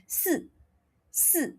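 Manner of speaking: si with tongue forward behind the teeth, soft; Mandarin si. Shown as a demonstration. Teacher showing Mandarin si, tongue forward. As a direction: say si with the tongue in front. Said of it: "Your tongue will be in front".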